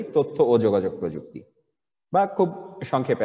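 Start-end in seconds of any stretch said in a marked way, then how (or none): 0.0-1.4 one flowing phrase, no breaks between words; in one breath. Shown as a demonstration. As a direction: run the whole name together without pause. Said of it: "এক নিঃশ্বাসে বলে ফেলি".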